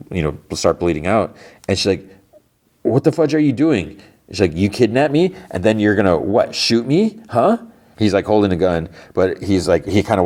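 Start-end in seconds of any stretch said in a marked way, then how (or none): 2.8-7.6 higher, indignant retold outburst; outraged demand. Heather confronting her kidnapper, voiced as a higher, mild outburst. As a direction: throw it back at him in disbelief.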